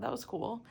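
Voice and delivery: "cool" with a big, rounded O sound; weird "cool". Real, not acted. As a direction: say "cool" with exaggerated big O's. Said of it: "Is it 'cause I said cool weird?".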